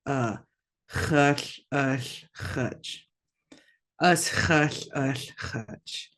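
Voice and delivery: teacher demonstrates a raspy throat H in hush and hutch; raspy throat sounds. Shown as a demonstration. Teacher to students, demonstrating the raspy throat sound. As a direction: rasp the H from the back of the throat, spitting. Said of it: "If you're spitting and spraying everywhere".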